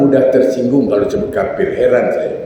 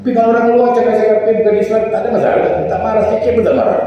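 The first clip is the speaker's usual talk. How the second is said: excited preaching; 10 semitones higher, much faster than usual. Real, not acted. Preacher builds to high, fast point.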